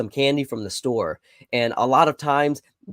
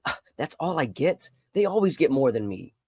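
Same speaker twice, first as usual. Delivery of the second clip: a touch of sighing discontent; mild mock complaint; 2 semitones higher than usual. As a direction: lightly act out feeling short-changed. Voicing a complaint about one's situation.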